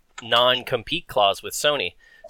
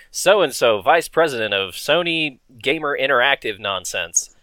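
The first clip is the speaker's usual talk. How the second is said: mock ad announcer; slower than usual. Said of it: "a commercial that's like".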